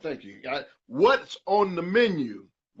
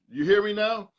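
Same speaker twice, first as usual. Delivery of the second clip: higher, louder call to the congregation; pitched-up preacher's challenge; 5 semitones higher, 3 dB louder than usual. Real, not acted. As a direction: rouse the room with a raised question.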